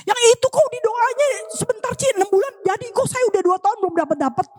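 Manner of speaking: high-pitched imitated grumbler; put-on high-pitched moan of complaint; mock complaint. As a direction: imitate someone protesting unfairness, voice pushed up high. Voicing a person complaining about prayers.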